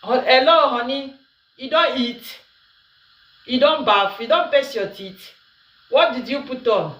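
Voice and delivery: lightly voiced doting boyfriend on the phone; sweet-talking lover. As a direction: play the caring partner checking in, a touch sugary. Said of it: "women get different kind of voice".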